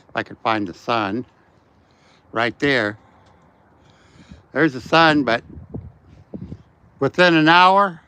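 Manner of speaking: talking while walking outdoors; walking and filming. Real, not acted. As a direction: voice jostled by walking steps. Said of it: "I'm sorry about the shaking".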